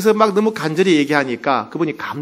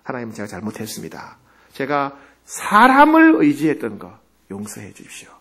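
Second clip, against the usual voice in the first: tearful repentance; 4 semitones lower than usual. Retold or imitated. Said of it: "눈물, 콧물 흘리고".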